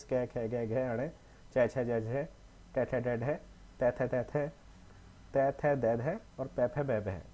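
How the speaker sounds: each consonant "कै खे गै घे अणे" said slowly and separately with a short pause between; slow consonant recital. Shown as a demonstration. Teacher reciting the alphabet "कै खे गै घे" to students, slow and distinct. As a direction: recite the letters "कै खे गै घे" one by one for the students. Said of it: "सबसे पहला पढ़ोगे".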